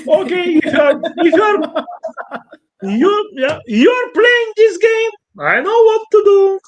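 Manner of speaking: hammed-up angry god; angry Apollo. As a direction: warn him, rising in anger. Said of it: "Apollo is getting very, very angry".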